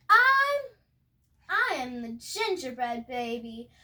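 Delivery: cocky, singsong boasting chant; gingerbread baby. Acted. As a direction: brag it in a taunting rhyme.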